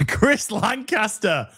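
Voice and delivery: high, slow, drawn-out donor announcement; stretched-out excited proclamation; hammed-up announcement. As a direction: announce it like a big prize. Hams up announcing a big donation.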